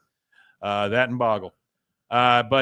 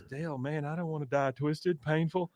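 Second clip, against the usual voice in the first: whiny Bill; 3 semitones higher, 8 dB quieter than usual. Retold or imitated. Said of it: "then Bill says".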